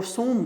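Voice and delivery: سوم with the first vowel as u, not i; dictionary variant pronunciation. Shown as a demonstration. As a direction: say سوم with u straight after the s. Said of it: "وہ سین پہ پیش ڈالتی ہے".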